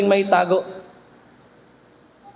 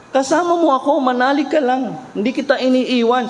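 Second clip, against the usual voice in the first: reassuring Lord; 6 semitones higher than usual. Retold or imitated. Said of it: "sabi nga nun ng Lord".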